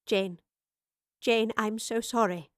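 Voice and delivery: gentle and apologetic; tender apology to a friend; soft. Acted. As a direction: speak softly to comfort her friend. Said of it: "the professor said softly".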